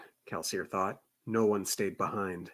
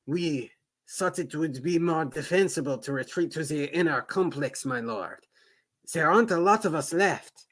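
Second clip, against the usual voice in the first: put-on French accent; 4 semitones higher than usual. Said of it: "my French accent".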